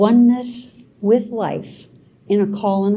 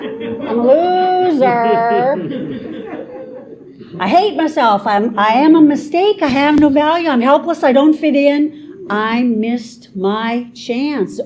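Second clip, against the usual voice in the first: harsh inner critic; 4 semitones higher than usual. Acted. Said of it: "how busy our storyteller is".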